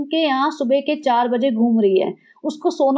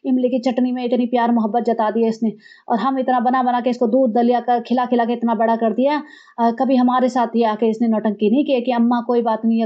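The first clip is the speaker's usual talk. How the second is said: lower, aggrieved grumble; mock complaining mother-in-law; 3 semitones lower than usual. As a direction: sulk over the ungrateful son. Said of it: "सासू माँ बोल रही होंगी". (कम सुर में शिकायती सास)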